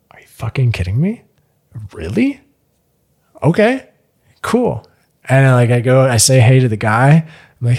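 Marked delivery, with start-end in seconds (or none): 0.1-1.2 whispered disbelief under the breath; stunned whisper. Retold or imitated. Narrator stunned that the roommate agreed, whispering. 1.9-4.9 surprised. Retold or imitated. Shocked acceptance of the bath.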